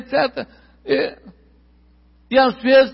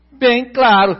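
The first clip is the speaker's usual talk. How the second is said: loud, emphatic "Bem claro"; 5 dB louder, slower than usual. Shown as a demonstration.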